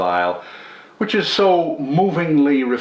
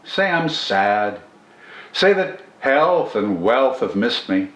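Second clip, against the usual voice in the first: poem recitation. Acted. Reciting the poem again for his channel's listeners, in a measured poetry reading. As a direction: read the poem as if savouring each line.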